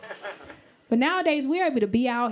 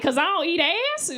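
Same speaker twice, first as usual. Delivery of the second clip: mildly aggressive, higher-pitched retort; aggressive comeback; 5 semitones higher than usual. Retold or imitated. Comic answering the friend's jab, a little aggressive. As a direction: throw it back, a touch combative. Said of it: "that's a little aggressive".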